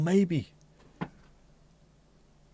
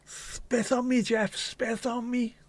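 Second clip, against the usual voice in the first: much higher, slow breathy swoon; swooning mock lady; 11 semitones higher, slower than usual. Lady swooning over Jeff, hammed-up higher plea. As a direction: ham up a lusty admirer.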